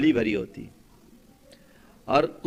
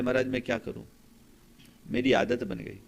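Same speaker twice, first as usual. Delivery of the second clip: soft, lower-pitched helpless admission; tearful confession, retold; 4 semitones lower, 4 dB quieter than usual. Weeping man confessing his habit to the monk, mildly sorrowful. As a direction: imitate a remorseful man, understated. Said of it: "उस आदमी की आंखों से आंसू बहने लगे".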